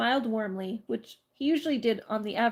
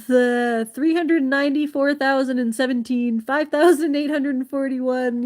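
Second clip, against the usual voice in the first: amused reading; 3 semitones higher, 8 dB louder than usual. Acted. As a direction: push through the giggles. Reading number letter aloud.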